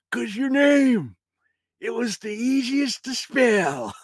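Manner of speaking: put-on high, slow cranky old man; old grandpa voice. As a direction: bark like a grumpy grandpa. Grandpa ghost voice.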